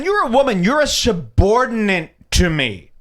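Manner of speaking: high, incredulous parroting of him; scandalized mock quote; mocking repeat. Host mockingly repeats the man's words.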